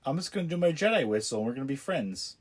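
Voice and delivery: a man sweet-talking a droid with a playful mock coo; mock sweet coaxing. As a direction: coax the little droid like a pet, half joking. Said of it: "Like, he's like".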